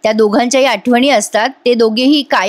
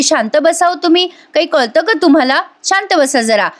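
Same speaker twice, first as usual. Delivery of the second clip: higher, half-acted scolding of the husband; mock scolding; 4 semitones higher than usual. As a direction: hush him up sharply, retold. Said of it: "Nandini जीवावरच ओरडते".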